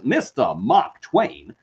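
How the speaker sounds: put-on slow, drawn-out Southern accent with dropped r's. Host grandly names the author, put-on Southern accent.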